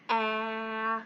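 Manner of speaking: short vowel "a" as in apple; short A sound. Shown as a demonstration. Teacher shows kindergartners the letter sound, short "a". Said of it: "short sounds".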